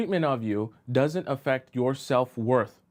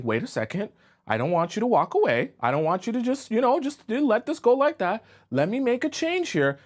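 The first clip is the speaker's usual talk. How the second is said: higher, imitated anxious pleading; pleading man; 7 semitones higher than usual. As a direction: beg her to stay, pitch climbing as you go. Acts men begging her to stay.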